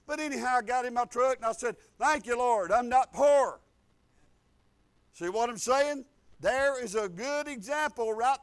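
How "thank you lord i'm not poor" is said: loud, punchy declaration of thanks; retold proclamation, hitting the last word hard; emphatic thanksgiving. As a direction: declare it loudly to God.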